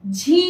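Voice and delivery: झी with a stretched long ii; drawn-out long ii. Shown as a demonstration. Teacher modelling झी for children. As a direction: pull the vowel of झी long. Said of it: "झ में".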